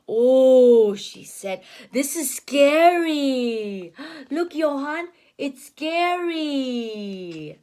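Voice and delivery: slow, drawn-out pretend fear; mock fright. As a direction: make the woods sound scary for the child. Red Riding Hood scared in woods.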